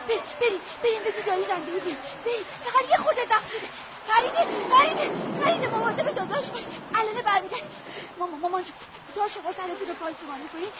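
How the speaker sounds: quick hushed rambling, half laughing; grief-stricken girl rambling to dead parents; delirious chatter. Acted. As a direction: talk to the dead as if alive.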